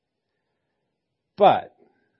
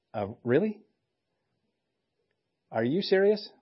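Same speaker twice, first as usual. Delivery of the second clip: doubtful, rising to a high disbelieving question; can't believe what he's hearing; incredulous; 4 semitones higher than usual. Retold or imitated. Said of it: "responds probably like we would have".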